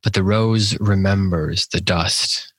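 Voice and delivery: measured, even poetry reading with pauses between lines; poem recitation. Acted. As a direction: recite the verse deliberately, letting each line settle.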